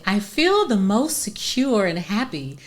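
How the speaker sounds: 느리고 부드럽게 읽기; slow soothing therapy-speak; soft, gentle. Shown as a demonstration. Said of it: "you should say".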